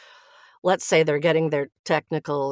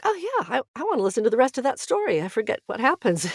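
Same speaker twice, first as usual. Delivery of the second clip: higher, faster excited inner voice; sudden delighted eagerness, quicker; eager; 7 semitones higher, faster than usual. Retold or imitated. Retold thought on hearing recording.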